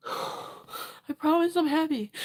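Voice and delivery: slow, teary promise; trying to convince through tears; tearful reassurance. Real, not acted. Streamer promising chat she's happy, slow and teary. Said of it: "I'm not sad, I swear".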